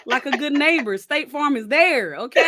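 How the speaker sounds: imitating a gentle reassurance; reassuring young man. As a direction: lightly play the sweet reassuring kid. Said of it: "They be s-, right".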